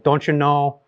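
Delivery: lightly imitated North Dakota accent; Minnesota accent. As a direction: imitate her Upper Midwest accent. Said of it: "incredible accent".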